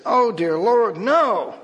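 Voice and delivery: loud, pained cry of despair; tearful cry. Acted. Injured pastor crying out to God, loud and tearful. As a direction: cry out as the leg is crushed. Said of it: "tears streaming down his face".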